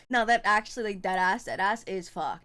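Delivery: ordinary talk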